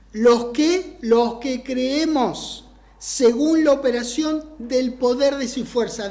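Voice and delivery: slow, emphatic re-read in separate phrases. Shown as a demonstration. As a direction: stretch the key words and pause between them. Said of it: "lo voy a leer más despacito".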